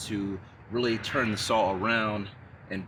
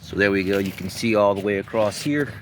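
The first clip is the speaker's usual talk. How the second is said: shouting over table saw; 8 dB louder than usual. Real, not acted. Raised voice after cutting concrete.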